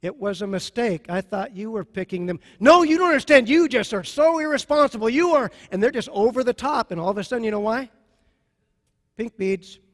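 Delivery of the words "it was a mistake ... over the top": rising from mild to a loud angry outburst; mock argument. Spouse snapping at partner, getting loud and angry. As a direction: play the blaming spouse losing patience. Acted couple quarrel over beads.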